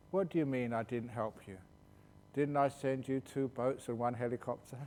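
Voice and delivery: a laughing, innocent retort; amused punchline. Retold or imitated. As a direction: deliver the punchline through a chuckle. Punchline, goddess answers.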